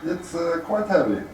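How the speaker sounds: muffled through a great helm; inside a helmet. Real, not acted. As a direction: voice boxed in by metal. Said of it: "How is it talking in the helmet?".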